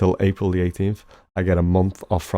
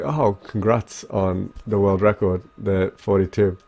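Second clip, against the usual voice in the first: Zelda in my voice; slower than usual. Retold or imitated. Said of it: "let's just do Zelda in my voice".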